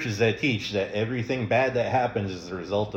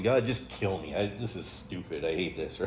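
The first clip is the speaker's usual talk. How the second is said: pouting Jonah; 3 semitones lower, 6 dB quieter than usual. Retold or imitated. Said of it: "He's sitting there pouting".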